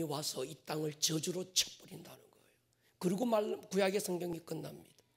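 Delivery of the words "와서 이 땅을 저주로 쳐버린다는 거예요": softer, hushed whisper of warning; dramatic whisper. Real, not acted. Preacher whispering to the congregation about the curse, hushed. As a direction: let the curse fall in a whisper.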